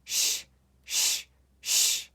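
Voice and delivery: "Sh" as a voiceless hushing sound; "sh" alone, three separate bursts without a vowel; digraph sound. Shown as a demonstration. Teacher drills digraphs with pupils, isolated "sh" sounds. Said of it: "Let's make these sounds three times each".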